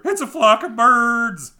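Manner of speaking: high, loud and slow joyful call; happy shout. A narrator's reading. A happy sailor to the crew, a loud slow cry. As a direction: call it out slowly, overjoyed. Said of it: "shouted a happy sailor".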